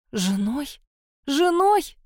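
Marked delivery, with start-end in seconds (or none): 1.3-2.0 shrieked much higher in outrage; screaming. A narrator's reading. Mar screams at her kidnapper's proposal, outraged shriek. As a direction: scream the word back at him. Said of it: "закричала Мар".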